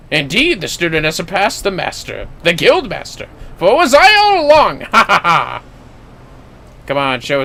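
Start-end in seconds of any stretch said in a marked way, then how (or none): 0.1-5.6 gloating master reveal. Acted. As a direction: build to the big reveal, a touch theatrical. Guild master reveals himself.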